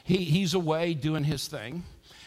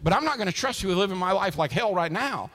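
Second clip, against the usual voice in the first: mock bargaining; 5 semitones higher, 4 dB louder than usual. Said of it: "we're in a sale".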